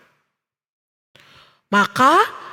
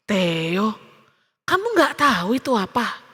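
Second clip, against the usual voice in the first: lower, soft and patient; gentle mother; 6 semitones lower, 4 dB quieter than usual. A narrator's reading. Mother gently explains to upset Theo, patient. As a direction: answer a child tenderly.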